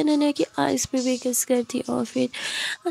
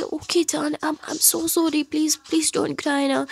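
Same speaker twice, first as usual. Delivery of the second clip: tender apology; 3 semitones higher, much slower than usual. Acted. Khushi calms crying Ananya, slow and tender. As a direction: soothe her so she stops crying. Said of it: "जिस पे खुशी बोलती".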